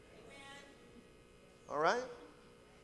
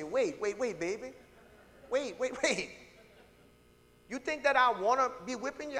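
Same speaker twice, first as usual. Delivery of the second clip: soothing parent; 2 semitones higher than usual. Retold or imitated. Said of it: "you whip your children and you say".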